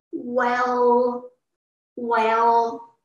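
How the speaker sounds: "well" drawn out slowly; third tone. Shown as a demonstration. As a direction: stretch each "well" as if pondering. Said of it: "try to memorize the third one".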